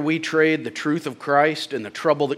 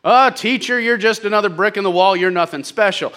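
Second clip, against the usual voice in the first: quick, scornful put-down in quotation; mock insult; 5 semitones higher than usual. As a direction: belittle the teacher, easing off toward the end. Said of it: "they thought that was an insult".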